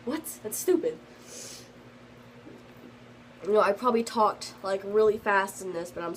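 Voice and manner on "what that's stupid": high-pitched indignant disbelief; mock outrage, pitched up; indignant what. Orange reacting to the story, with high, mocking indignation. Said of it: "Orange was just like".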